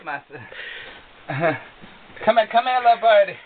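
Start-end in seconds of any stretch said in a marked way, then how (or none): 2.2-3.4 loud coaxing call to a bird; coaxing a wild bird. Real, not acted. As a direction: call the bird over, louder and urgent. Calling a loose bird back.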